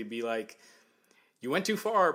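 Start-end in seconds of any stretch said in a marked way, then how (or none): 1.4-2.1 higher, louder mock protest; mildly mad. Wrestler objecting after a New Day teammate is hurt, mildly mad. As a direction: imitate a half-hearted angry complaint. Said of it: "it wasn't, like, that mad".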